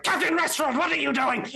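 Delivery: high, disdainful goblin wizard; ghostly goblin wizard. Acted. Goblin wizard scolding the captain. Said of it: "he's like".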